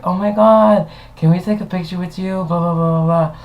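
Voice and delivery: high-pitched mock fan excitement; gushing fans. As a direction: imitate a starstruck group asking for a photo. Imitating excited fans asking for picture.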